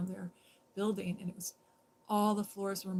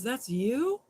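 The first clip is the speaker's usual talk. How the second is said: surprised officer; 4 semitones higher, 9 dB louder than usual. Retold or imitated. Officer surprised she wrote it.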